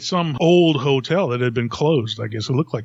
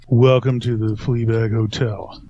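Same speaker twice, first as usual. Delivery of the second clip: deadpan read; 3 semitones lower, slower than usual. Retold or imitated. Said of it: "just reading it so flat".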